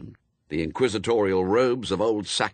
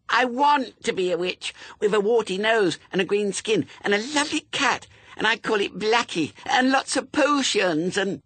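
put-on very high, louder small-child voice; excited little girl; 4 dB louder than usual. A narrator's reading. Little suspect lists her witch wishes, excited childish voice. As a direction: gush on breathlessly like a six-year-old. Six-year-old gushes about being a witch.

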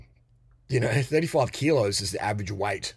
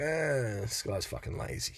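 whispered aside; 6 dB quieter, slower than usual. Retold or imitated. Voices a woman's private verdict.

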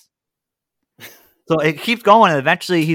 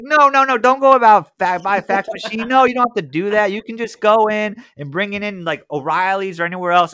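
higher, louder, rushing no no no; pleading salesman; 7 semitones higher, 4 dB louder than usual. Retold or imitated. Salesman begging caller not to buy a fax, high and loud. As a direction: stop him in a panic, high and loud.

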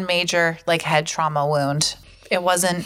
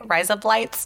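Australian accent; 2 semitones higher, slower than usual. Shown as a demonstration. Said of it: "it sounds like razor blades in Australian".

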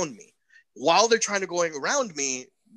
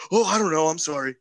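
cowering apology; 3 semitones higher, 4 dB louder than usual. Retold or imitated. Storyteller mimics the man hiding behind his girlfriend, mock cowering. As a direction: imitate a tough guy suddenly backing down. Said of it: "cowering behind his girlfriend".

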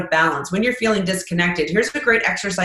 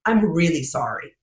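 mean every word of "I'm really sorry"; sincere apology; 5 semitones lower than usual. Shown as a demonstration. Apologizing after thanking him, said low and sincere. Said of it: "far more sincere if I just don't lead with it".

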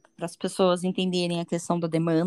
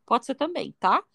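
ordinary delivery

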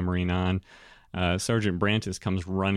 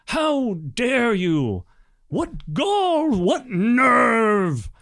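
high, loud, slow outraged yelling; furious shout; 11 semitones higher, 4 dB louder, slower than usual. Acted. Sergeant screaming at the adventurer who woke his lord, furious. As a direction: bellow at the intruder with outrage. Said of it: "very angry".

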